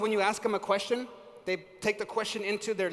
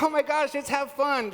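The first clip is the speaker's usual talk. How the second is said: bubbly mock excitement; 4 semitones higher than usual. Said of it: "You can't be all like".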